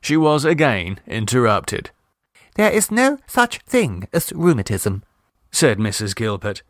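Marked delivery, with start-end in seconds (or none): 2.6-5.0 a touch of lofty defiance, higher; defiant. A narrator's reading. Miss Gilpert contradicts Mrs Mummerby, mildly defiant. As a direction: state it like a defiant waiter, lightly. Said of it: "conscious air of defiance".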